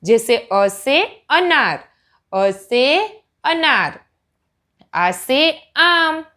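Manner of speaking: put-on each word spoken slowly for a child; slow and clear for a small learner; deliberate, slow pointing-and-saying; slow teaching demo. Shown as a demonstration. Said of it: "उस पे हमारी उंगली जानी चाहिए".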